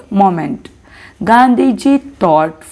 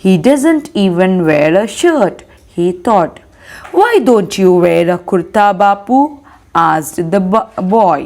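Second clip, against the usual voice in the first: measured, lower-pitched read-aloud; story reading; 4 semitones lower than usual. A narrator's reading. Teacher reading to students, measured story narration. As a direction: read it out clearly for a class, phrase by phrase.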